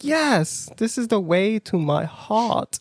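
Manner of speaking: high, swooning yes; hammed-up lovestruck approval; smitten delight. Date cooking dinner for me, smitten delight.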